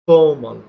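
ফর্মাল said as fomal, no r; native pronunciation. Shown as a demonstration. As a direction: drop the r in ফর্মাল. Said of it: "not formal".

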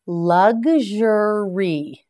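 "Luxury" stretched very slowly, each syllable clear; slow careful model. Shown as a demonstration. Teacher models "Luxury" slowly for learners to repeat. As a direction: spell out "Luxury" with your voice, slowly. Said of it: "You try it".

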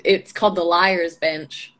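slow, slight Southern US drawl on the bar's name; name the bar in a light Southern accent. Shown as a demonstration. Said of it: "said it in a Southern accent".

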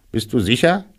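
high, rising rabbit question; astonished rabbit. A narrator's reading. Rabbit doubts the bear's identity, astonished high voice. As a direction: ask in high-voiced wonder. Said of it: "fragte Kaninchen noch erstaunter".

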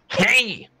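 sharp yelled hey; shout. Acted. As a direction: call out loud to get attention. Shouting at a game character.

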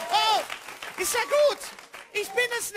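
high cartoon voice, fading out; SpongeBob voice. Comedian still in SpongeBob voice to the crowd. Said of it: "Ich kann nur den Sprecher gut imitieren".

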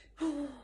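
audible gasp of wonder; storyteller's gasp. Acted. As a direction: gasp in anticipation. Gasps before showing next animal.

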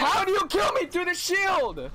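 angry. Real, not acted. Outraged at a death.

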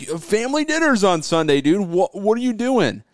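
guilt-trip him like a relative; nagging family. Retold or imitated. Family scolding Keith about Sunday dinner, whiny. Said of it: "your family's like mad".

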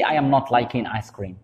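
I am not liking ice cream said very slowly; slow wrong example. Shown as a demonstration. Teacher slowly shows the sentence to avoid. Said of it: "ماشي".

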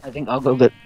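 talking through a mouthful of tuna; words round a bite of fish; mouth full of tuna. Real, not acted. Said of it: "sorry, mouthful of tuna".

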